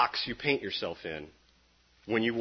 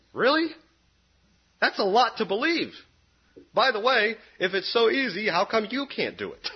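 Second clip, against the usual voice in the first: loud, higher, incredulous comeback; sharp retort; 10 semitones higher, 5 dB louder than usual. Real, not acted. Preacher firing back at people who call grace easy, loud and incredulous. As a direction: fire the question back at the doubters. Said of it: "the retort I fire back".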